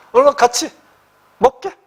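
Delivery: a lightly voiced elder pressing someone to eat; elder urging. Shown as a demonstration. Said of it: "노년의 신사가 중년의 남자한테".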